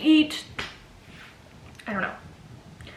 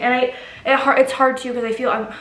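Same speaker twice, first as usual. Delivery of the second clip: about to cry; 2 semitones higher than usual. Real, not acted. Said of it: "why am I talking like this? I'm literally gonna cry".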